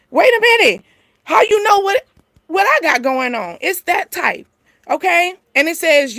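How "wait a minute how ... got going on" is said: mock double-take, pitched up; suspicious surprise. Acted suspicious reaction.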